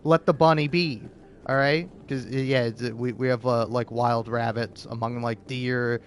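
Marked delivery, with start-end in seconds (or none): 0.0-1.9 louder scolding of the dog; mock yell at dog. Scolding the dog Kip over the bunny, a mock yell. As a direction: tell the barking dog off, louder.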